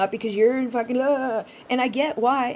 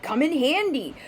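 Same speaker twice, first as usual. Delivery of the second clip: mock delighted client; 4 semitones higher than usual. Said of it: "they may be like".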